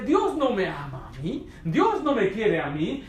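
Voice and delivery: imitar una queja llorosa, lenta y alargada; un toque de llanto, arrastrando las palabras; lamento imitado. Retold or imitated. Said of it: "la vi cómo lloraba". (lamento lloroso y lento)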